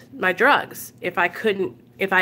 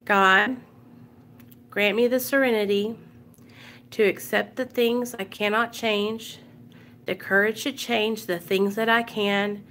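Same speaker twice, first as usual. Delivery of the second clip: serenity prayer; 3 dB quieter than usual. Real, not acted. Leading viewers in the serenity prayer, soft recited prayer. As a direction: pray it gently, line by line. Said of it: "we're gonna say the serenity prayer".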